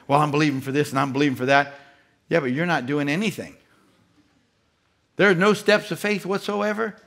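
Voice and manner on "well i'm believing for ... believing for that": mocking Christians. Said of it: "That's the way a lot of Christians talk".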